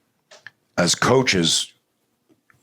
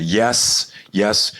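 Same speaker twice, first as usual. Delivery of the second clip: higher, urgent parent's reply; mock impatience; 4 semitones higher than usual. Worried dad on the phone to the school nurse, mock impatient. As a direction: hurry the caller along, pitched up.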